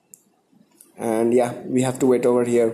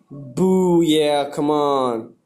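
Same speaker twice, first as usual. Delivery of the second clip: drawn-out cheer; much slower than usual. Real, not acted. Cheering at the egg result on stream.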